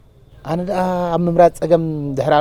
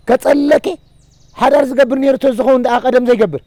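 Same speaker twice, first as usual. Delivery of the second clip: louder and higher, pressing the point; heated insistence; 5 semitones higher, 5 dB louder than usual. Acted. Neighbour insists to Arsema that Yemane would have married long ago, heatedly. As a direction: hammer it home with heat.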